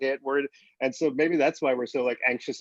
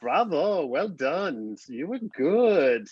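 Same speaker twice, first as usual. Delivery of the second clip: French lady; 2 semitones higher, much slower than usual. Retold or imitated. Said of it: "this French lady".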